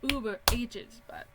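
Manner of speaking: talking through a yawn; words stretched by a yawn. Real, not acted. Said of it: "I cannot stop yawning".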